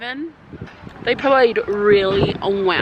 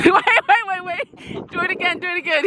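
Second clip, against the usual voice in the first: excited interruption; 7 semitones higher than usual. Real, not acted. Laughing, stopping friend to repeat dance.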